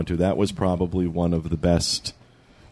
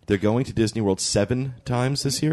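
incredulous echo; 6 semitones higher than usual. Real, not acted. Echoes her line in disbelief.

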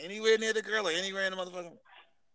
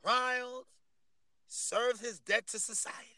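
slow, measured broadcaster delivery; 7 dB louder, much slower than usual. Real, not acted. Host laying out the man's case to co-hosts, broadcast voice. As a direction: announce it like a broadcaster, with weighty pauses. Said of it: "your broadcast voice too".

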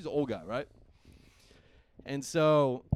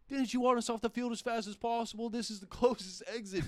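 incredulous; 9 semitones higher than usual. Retold or imitated. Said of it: "I'm like".

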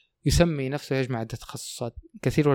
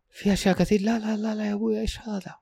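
exasperated protest; 9 semitones higher than usual. Retold or imitated.

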